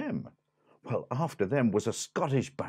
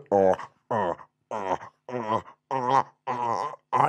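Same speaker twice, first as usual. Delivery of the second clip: gobbling noises; 2 semitones lower than usual. Acted. Cat gobbles the elephant's trunk.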